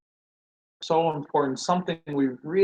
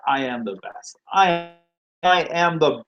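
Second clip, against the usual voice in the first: mock boasting, building higher and louder; acted bragging; 3 semitones higher, 3 dB louder than usual. Bragger nobody likes to hear, mock boastful. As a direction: puff it up like a braggart. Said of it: "No one likes to hear you talk about".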